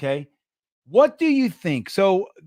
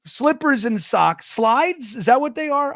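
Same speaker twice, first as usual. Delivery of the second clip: imitating teen son; 4 semitones higher than usual. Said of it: "he's like".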